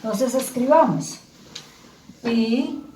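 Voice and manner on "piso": "piso" spaced far apart, pi... so; syllable by syllable. Shown as a demonstration. Teacher writes and separates the word, syllable by syllable. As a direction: dictate "piso" in two slow pieces. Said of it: "yo puedo separar aquí".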